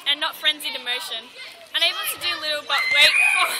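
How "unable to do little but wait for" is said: loud, quick, bursting into a real laugh; breaking into laughter. Real, not acted. Student reading Hamlet analysis, cracking up. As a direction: lose it at the end of the phrase.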